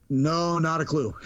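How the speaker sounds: slow, drawn-out retold denial; feigned innocence. Ticket seller questioned in the boardroom, feigning innocence. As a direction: play dumb, stretching the words.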